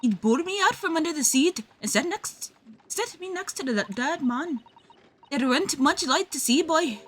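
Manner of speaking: put-on street girl voice. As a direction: snap back like a cornered street kid.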